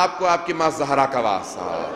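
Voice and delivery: mock sobbing plea. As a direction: beg through a light imitated sob. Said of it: "رونا شروع کیا اور آواز دی". (مروان کی رو کر فریاد، ہلکی سی نقل)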